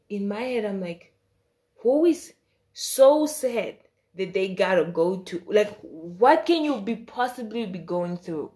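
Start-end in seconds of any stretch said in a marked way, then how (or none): 1.8-8.5 incredulous. Retold or imitated. Incredulous inner thought about therapy.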